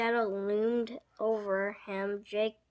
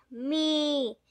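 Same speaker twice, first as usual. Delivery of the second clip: higher, excited shout; eager shout; 5 semitones higher, 4 dB louder than usual. A narrator's reading. Jake volunteering to sing, eager higher shout. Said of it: "shouted Jake".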